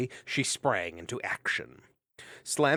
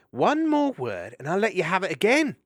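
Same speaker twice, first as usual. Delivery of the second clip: mock threat; 9 semitones higher, 8 dB louder than usual. Mariel threatens with haversack.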